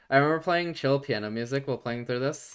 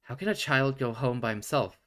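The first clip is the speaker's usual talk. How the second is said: shocked exclaim. Acted. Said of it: "she exclaims, shocked".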